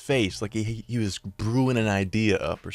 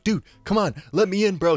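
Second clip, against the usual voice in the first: much higher and louder, mock frantic plea; panicked pleading; 9 semitones higher, 4 dB louder than usual. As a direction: beg through the locked door. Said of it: "He's terrified at this point".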